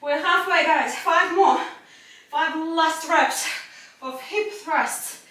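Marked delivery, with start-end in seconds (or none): 2.3-5.2 shaking with effort. Real, not acted. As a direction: push the words out through muscle burn. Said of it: "My legs are shaking".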